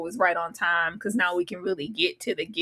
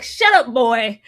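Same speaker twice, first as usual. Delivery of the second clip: mock yell; 2 semitones higher, 6 dB louder, slower than usual. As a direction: snap it at the boy in jest. Re-enacting Dunk's yell again.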